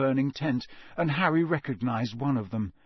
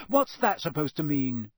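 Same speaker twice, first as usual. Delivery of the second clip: defiant; 3 semitones higher than usual. Acted. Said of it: "said Hermione defiantly".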